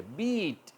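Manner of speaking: बीट with the ee drawn out long; बीट said as a long beet; long vowel demo. Shown as a demonstration. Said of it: "इसको हम थोड़ा long करेंगे".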